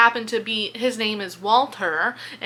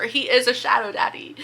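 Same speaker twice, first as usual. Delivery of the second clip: whispered secret. Shown as a demonstration. Vlogger telling viewers a secret about the prince, whispered.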